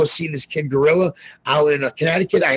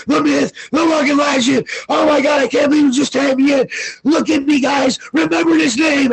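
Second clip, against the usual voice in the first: much higher, shouted hype; flipping out; 9 semitones higher than usual. Retold or imitated. Hyping himself live on Brosco's stream, ecstatic shouting. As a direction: scream it like you just won big. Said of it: "I just started flipping out".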